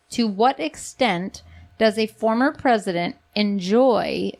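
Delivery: slow, deliberate reading of a legal question; solemnly paced court-document reading; formal read-aloud. Real, not acted. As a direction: measure it out phrase by phrase.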